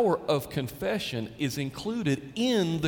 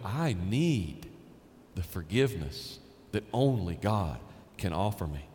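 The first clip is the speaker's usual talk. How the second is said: broken plea; 8 semitones lower, 3 dB quieter than usual. Retold or imitated. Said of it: "that's when you go".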